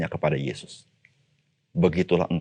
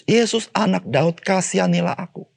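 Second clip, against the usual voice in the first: shouting for Jesus; 12 semitones higher than usual. Retold or imitated. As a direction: call out desperately over the crowd. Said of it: "Dia teriak-teriak memanggil Yesus".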